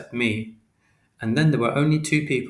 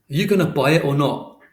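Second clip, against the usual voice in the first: higher, louder London shopkeeper, impatient; 4 semitones higher, 6 dB louder than usual. A narrator's reading. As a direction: push the boy to pay up.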